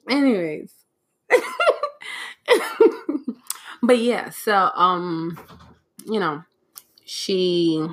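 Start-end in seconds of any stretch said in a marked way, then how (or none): 1.3-3.8 a long stretch of high laughter; a real drawn-out laugh. Real, not acted. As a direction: keep laughing, high and helpless. Can't stop laughing.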